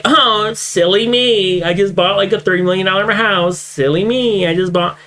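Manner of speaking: lightly voiced faux-humble streamer; mock self-deprecating. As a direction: mimic a fake-modest rich guy. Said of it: "just fucking own up to it".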